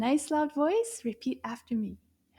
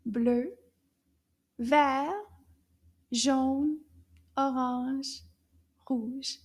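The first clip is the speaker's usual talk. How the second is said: nice loud voice; much slower than usual. Shown as a demonstration. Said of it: "can you repeat these colors in a nice loud voice?".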